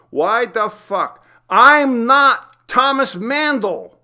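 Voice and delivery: high, loud, slow desperate yell; a man screaming that he is not who he seems; frantic scream. A narrator's reading. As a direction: scream it at the mirror in panic. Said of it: "he screamed".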